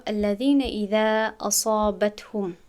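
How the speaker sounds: slow tajwid reading; careful slow recitation; slow Quranic recitation. Shown as a demonstration. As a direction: recite it slowly, each letter clear.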